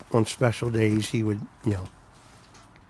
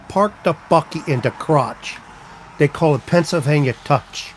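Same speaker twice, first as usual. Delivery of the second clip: mock Pennsylvania Dutch accent; 4 semitones higher, 4 dB louder than usual. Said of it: "That's the accent they all have".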